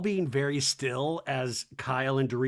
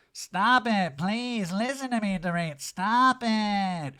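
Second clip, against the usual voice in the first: higher, put-on imploring voice; Erica pleading; 5 semitones higher, slower than usual. Erica begging Dorit to listen, imitated pleading. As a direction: beg her to stop, hammed-up.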